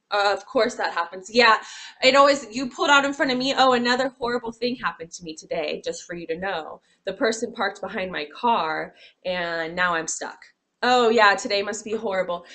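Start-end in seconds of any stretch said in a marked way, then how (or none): 3.6-12.4 louder, mildly whiny complaining; mock negative complainer. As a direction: play a hammed-up gloomy grumbler. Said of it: "Very negative".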